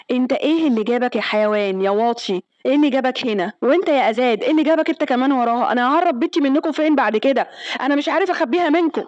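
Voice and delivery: a father's retold rant, building up; angry yelling. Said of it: "وبيزعق له وبيشتمه".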